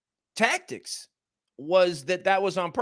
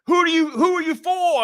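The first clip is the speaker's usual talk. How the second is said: put-on failed Irish accent; 12 semitones higher, 4 dB louder than usual. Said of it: "I can't even do an accent right now".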